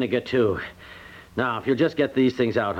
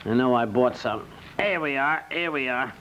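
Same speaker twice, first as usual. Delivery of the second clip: ordinary delivery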